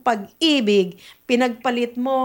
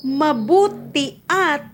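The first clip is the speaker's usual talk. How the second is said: slow demo; 3 semitones higher, much slower than usual. Shown as a demonstration. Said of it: "sasabihin mo".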